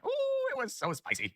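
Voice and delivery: excited. Real, not acted. Recalling excitement.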